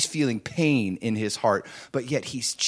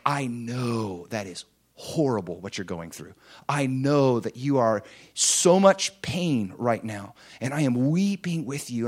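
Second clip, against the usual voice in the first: tender comforting father; 3 semitones lower than usual. Pretend. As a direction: comfort them gently like a father at a bedside. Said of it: "He's like".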